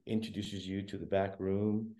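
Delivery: hushed, gentle spa receptionist; mock soothing spa attendant; soft spa voice. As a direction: murmur it softly like a spa hostess. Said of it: "a lady in a really nice, soft voice".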